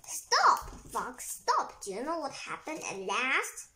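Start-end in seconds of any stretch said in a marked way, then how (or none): 0.0-1.8 high, loud shout on stop; calling out. Acted. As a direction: yell stop at the fox. Child calling to fox.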